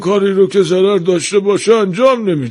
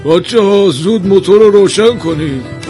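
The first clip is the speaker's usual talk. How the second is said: high, loud master's call; calling out orders; 9 semitones higher, 4 dB louder than usual. Acted. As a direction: shout an order across the workshop. Master calls orders to apprentices. (دستور دادن با صدای بلند و زیر)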